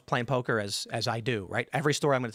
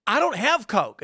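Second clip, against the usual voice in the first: higher-pitched, baffled protest; exasperated retold denial; 8 semitones higher, 4 dB louder, slower than usual. Californian host answering his Louisiana guest, exasperated. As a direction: imitate a host insisting, pitched up. Host's reply acted in retold quarrel.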